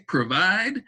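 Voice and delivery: provide said high and clear, long O in pro; modeling long O. Shown as a demonstration. Teacher showing kids the long O, lifted up. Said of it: "has that long O sound".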